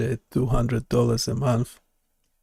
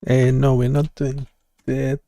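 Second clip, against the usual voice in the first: loud; 6 dB louder than usual. Real, not acted. Corrects the AI, cutting in.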